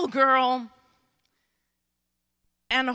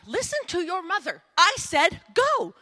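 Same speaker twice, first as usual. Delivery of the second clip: stern motherly order, pitched higher; ticked-off Naomi; 4 semitones higher than usual. Acted. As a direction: lay down the law, acting annoyed. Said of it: "Naomi's probably ticked".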